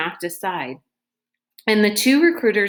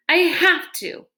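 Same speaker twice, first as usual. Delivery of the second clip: high, sharp retort; fierce retort; 10 semitones higher than usual. A narrator's reading. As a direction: snap it back defiantly. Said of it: "Kate retorted fiercely".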